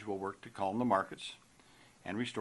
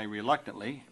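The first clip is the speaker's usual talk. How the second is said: RELUCTANTLY punched a little louder; stress on RELUCTANTLY; 4 dB louder than usual. Real, not acted. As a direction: lean firmly on the word "reluctantly". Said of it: "I stress the word reluctantly".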